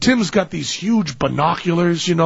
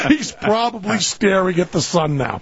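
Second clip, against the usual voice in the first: imagined exasperated thought; 3 semitones higher than usual. Retold or imitated. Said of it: "his brain was thinking".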